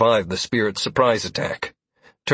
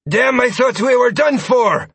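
relieved shout; 13 semitones higher, 6 dB louder than usual. A narrator's reading. Sawyer relieved in battle.

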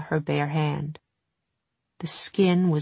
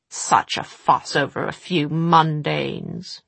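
amused witch; slower than usual. Acted.

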